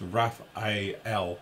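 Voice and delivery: Raphael slowly split into "Raph", "A", "L"; broken into parts. Shown as a demonstration. Host showing how to pronounce it, slowly sounded out. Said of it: "how to pronounce it".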